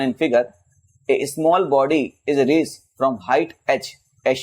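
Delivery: measured, word-by-word textbook read; reading out a question. Real, not acted. Teacher reading a physics problem to students, slow and measured. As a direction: read the exam problem out slowly.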